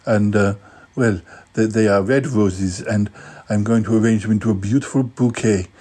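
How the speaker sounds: lightly put-on eccentric host voice; a hint of a dotty presenter; Cromitty character voice. Cromitty character presents flower arranging.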